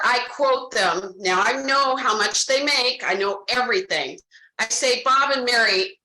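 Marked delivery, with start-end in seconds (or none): 5.0-6.0 a touch more serious, barely lowered; serious demeanor. Shown as a demonstration. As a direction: drop the fun, turn grave and earnest. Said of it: "Do you see how my demeanor changes? I'm not fun Carrie anymore".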